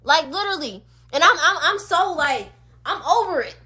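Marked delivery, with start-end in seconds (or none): 2.2-3.5 real tears catching in a softer voice; tearful and fed up. Real, not acted. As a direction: let a crack of crying slip in, fed up. Upset rant about ancestors' silence.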